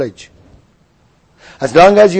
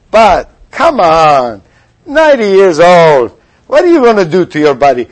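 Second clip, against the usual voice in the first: tempting voice of pleasure. Retold or imitated. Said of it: "Nar, the one that goes after pleasure, says".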